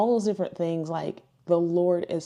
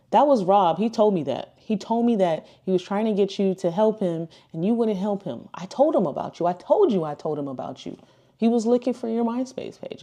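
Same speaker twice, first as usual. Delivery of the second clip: animated, slightly raised mock scolding; retold insistence; 4 semitones higher, 4 dB louder than usual. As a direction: press the point, acting out the friend. Acts out friend's insistent retelling.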